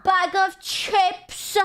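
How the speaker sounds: high, very slow drawn-out call; silly announcer call. Acted. Streamer hams up a snack call in a drawn-out high voice. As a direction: stretch it out like a cartoon.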